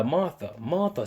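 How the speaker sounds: quiet reading. Retold or imitated. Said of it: "he said her name twice".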